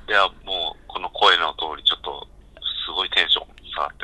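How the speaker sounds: low-energy, just-woken voice; subdued and halting, pitch sagging toward the end; 寝起きの沈んだ声. Real, not acted. (寝起きのテンション低い声)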